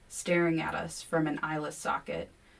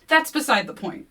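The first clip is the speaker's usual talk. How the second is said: higher, louder, stubborn; dogged; 7 semitones higher, 8 dB louder than usual. A narrator's reading. William doggedly to Kevin, higher and louder. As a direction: hold your ground. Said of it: "William says doggedly".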